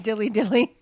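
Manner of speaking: mocking the catchphrase. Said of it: "this damn Bud Light commercial".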